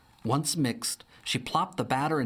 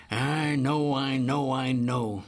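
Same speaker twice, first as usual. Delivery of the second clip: louder fretful repeats; flustered and upset; agitated; 4 dB louder, slower than usual. Acted. Alva frets about the missing honey, agitated. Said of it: "said an agitated Alva V Bear".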